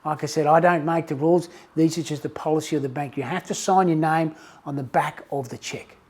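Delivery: calm the customer down gently; reassuring teller. Retold or imitated. Teller reassuring the worried customer, a touch soft and soothing. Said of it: "Teller tries to reinsure, reassure the guy".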